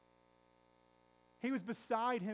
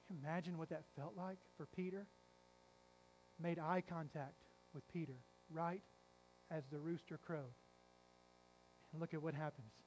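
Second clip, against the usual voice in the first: hushed solemn telling; 4 semitones lower, 6 dB quieter than usual. Acted. Preacher hushing the church as Jesus looks at Peter, soft. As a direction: let it sink in, barely above a breath.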